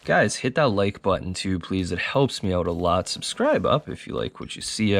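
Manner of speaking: smooth radio announcer voice. Real, not acted. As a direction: talk like a late-night radio host. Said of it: "I have a weird radio voice".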